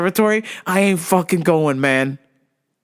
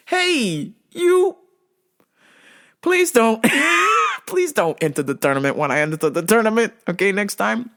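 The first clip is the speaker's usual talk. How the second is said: mock plea. Pleading with the big rival.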